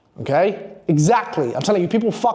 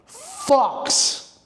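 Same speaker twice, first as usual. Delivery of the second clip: drawn-out, voiceless whispered punchline; emphatic whisper; 4 semitones higher than usual. Real, not acted. Coach sells his method to viewers, emphatic whisper.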